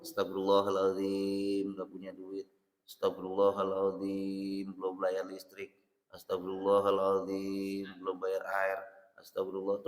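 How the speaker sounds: preacher acting out a weary plea; mock lament. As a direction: sigh it out like a broke man complaining. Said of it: "pakai mulut".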